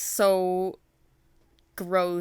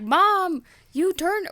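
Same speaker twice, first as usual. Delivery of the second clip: high, loud mock wail at Mom; hammed-up son protesting in a raised pitch; whiny upset son; 12 semitones higher, 7 dB louder, much slower than usual. Boy Punzel confronting his demon mom, mock wail.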